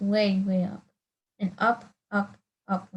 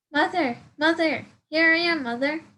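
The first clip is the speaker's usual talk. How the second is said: loud, high calling out to mother; high eager call; 7 semitones higher, 6 dB louder than usual. Acted. Bird calls to big thing.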